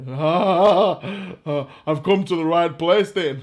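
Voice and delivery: hint of a gleeful Irish madman; crazy Irishman. Irishman answering being called a madman, lightly mad glee. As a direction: lightly play a cackling wild Irishman. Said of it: "the crazy Irishman".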